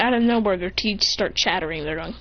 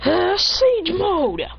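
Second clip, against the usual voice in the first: high, very drawn-out power-up cry; battle technique call; 8 semitones higher, much slower than usual. Acted. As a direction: stretch out the attack name like an anime hero. Hero calls out power-up.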